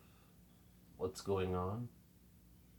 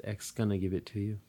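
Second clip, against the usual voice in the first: wide voice; 9 dB quieter than usual. Retold or imitated. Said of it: "as wide a voice as I could".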